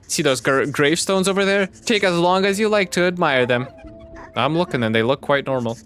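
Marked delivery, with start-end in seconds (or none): 0.1-3.7 high gloating villain voice; slow theatrical villain menace. Acted. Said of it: "my evil villain speech".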